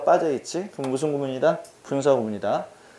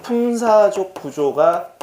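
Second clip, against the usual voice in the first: "품사적 구조가" drawn out slowly and higher; slow, raised emphasis on "품사적 구조가"; emphatic key point; 5 semitones higher, 3 dB louder, much slower than usual. Real, not acted. Teacher repeating the key rule to students, "품사적 구조가" slow and emphatic.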